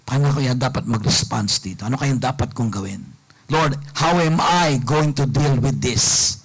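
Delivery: low, measured pondering to oneself; calm self-questioning. Acted. Preacher voicing a calmed-down person asking the Lord, calm and low. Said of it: "kapag kakalmante ka na, isipin mo ngayon".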